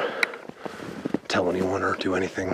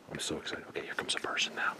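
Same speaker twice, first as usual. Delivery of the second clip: whispering; 6 semitones lower, 13 dB quieter than usual. Real, not acted. Sneaking past a hiker.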